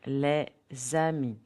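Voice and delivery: LES AMIS as le, pause, zami; teacher's model of "Les amis", Z link; liaison model. Shown as a demonstration. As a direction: say "Les amis" in two parts with Z starting "amis". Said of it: "Listen and repeat after me".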